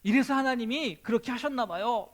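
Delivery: a touch of happy, eager telling; laughing happily. Acted. A believer happily telling his pastor the good news, mildly excited. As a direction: share the good news gladly. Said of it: "막 웃으면서 막 얘기하는 거예요".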